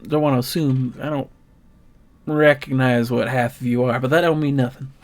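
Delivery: lightly voiced friendly country clerk; folksy, easygoing shop talk; a hint of a homespun stablekeeper; chatty shopkeeper.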